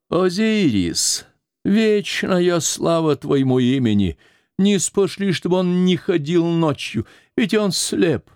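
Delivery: put-on high, pleading old woman's lament; старуха причитает. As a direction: plead to the god like a frail old nurse. (старческое причитание, высоким голосом)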